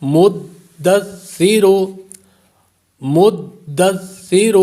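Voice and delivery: مدثر recited slowly, tha without a whistle and a firm dal; tajweed recitation. Shown as a demonstration. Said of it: "سا پر سیٹی کی آواز پیدا نہیں ہوگی".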